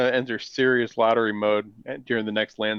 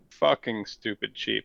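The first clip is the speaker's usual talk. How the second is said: slow, weighty stress on "fucking stupid cheap"; emphasis on FUCKING STUPID; 3 dB quieter, slower than usual. Retold or imitated. Correcting the co-host with Odin's words, "fucking stupid cheap" slowly emphasized. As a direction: lean on each word of "fucking stupid cheap". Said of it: "we gotta put the emphasis in there".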